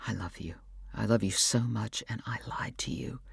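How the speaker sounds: soft, breathless whisper; almost no voice, like a secret; inner thought, whispered. A narrator's reading. Husband silently confessing to his wife, whispered. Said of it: "he was thinking".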